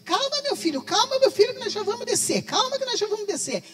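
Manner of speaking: father calming son. Retold or imitated. Father calming son mid-fit.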